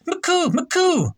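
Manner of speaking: very high, piercing cry; shrill shout. A narrator's reading. Stranger shrilly shouting at the officers, very high. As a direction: shriek the foreign words. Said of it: "and shrilly shouting".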